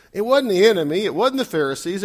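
normal talking voice

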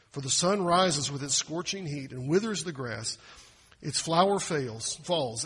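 measured scripture read. Acted. Pastor reading scripture to the congregation, measured. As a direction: read the verses with weight.

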